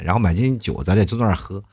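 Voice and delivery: ordinary delivery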